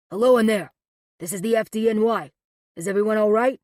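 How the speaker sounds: loud call through doors; muffled calling. A narrator's reading. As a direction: shout from outside the elevator. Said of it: "the muffled voice ... calls".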